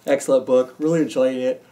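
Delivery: yawning. Real, not acted. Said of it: "'cause I keep yawning".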